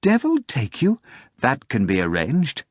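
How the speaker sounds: high, breathless excited telling; agitated retelling. A narrator's reading. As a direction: rush through the story in a nervous panic. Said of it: "quivering in agitation".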